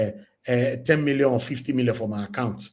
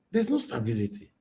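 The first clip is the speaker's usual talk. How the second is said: softer, resigned echo; quiet repeat; 6 dB quieter than usual. Real, not acted. Repeating it to viewers, quieter and resigned. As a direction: drop it down and let it sink.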